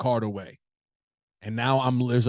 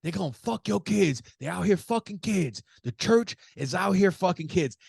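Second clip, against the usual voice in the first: high-pitched imitation of a ranting man; mock yelling; 7 semitones higher than usual. Subway ranter yelling at the train car, mock yell. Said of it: "he starts yelling".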